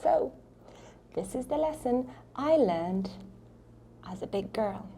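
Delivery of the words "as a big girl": whisper. Acted. Playful whispered aside.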